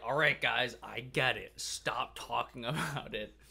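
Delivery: loud retold annoyance, settling down; Damien's mock exasperation. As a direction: imitate a fed-up friend, half laughing by the end. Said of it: "Damien got mad at us".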